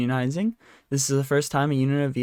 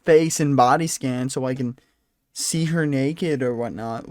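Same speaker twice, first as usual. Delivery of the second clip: mocking creepy voice; 4 dB louder than usual. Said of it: "You don't need to go".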